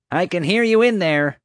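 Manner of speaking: loud, high yell through a door. A narrator's reading. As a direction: holler it at the locked door. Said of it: "she yelled".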